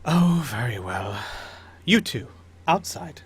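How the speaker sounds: lightly voiced noblewoman giving in; Lady Trask. Baroness sends her two servants out, mildly put-upon. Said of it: "looks at Lady Celine and says".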